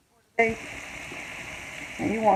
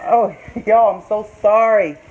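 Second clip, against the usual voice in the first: laughing apology; 3 semitones higher, 7 dB louder than usual. Real, not acted. Laughs apologizing to viewers for sneezing.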